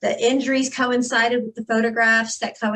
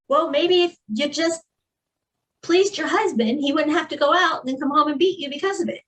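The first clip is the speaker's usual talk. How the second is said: higher, preachy imitation of the blamers; parroting the critics with sarcasm; mock judgmental critic; 4 semitones higher than usual. Survivor mimics people who blamed her, sarcastic mock.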